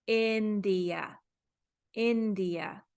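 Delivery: India with a short "ih" at the start; teacher modelling the short I in India. Shown as a demonstration. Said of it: "it can also say".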